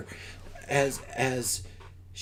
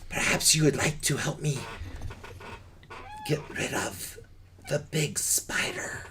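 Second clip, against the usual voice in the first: lightly voiced dragon, whispered end; a hint of a sly dragon; 3 semitones higher than usual. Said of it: "to a dragon voice".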